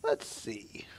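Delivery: whispered aside to herself; soft whispered murmur while scanning questions. Real, not acted. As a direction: breathe it out, no voice. Reading out the next question.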